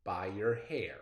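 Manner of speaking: measured read-aloud poem voice; expressive classroom poem reading. Acted. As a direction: read it like a storybook poem for kids. Teacher reads poem aloud.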